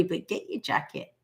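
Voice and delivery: soft whisper of the universe; whispered nudge. Retold or imitated. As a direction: whisper the reminder. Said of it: "the universe will always say".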